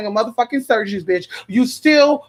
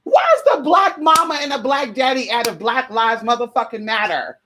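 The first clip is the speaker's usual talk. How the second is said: indignant rant; 3 semitones higher than usual. Retold or imitated. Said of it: "And I'm like".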